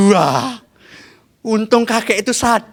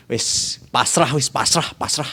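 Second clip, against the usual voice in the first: low, quiet, slow giving up; resigned and dejected; 6 semitones lower, 5 dB quieter than usual. Acted. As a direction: sigh it out in defeat. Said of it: "tunduk lesu". (kakek pasrah dengan lesu, suara rendah pelan)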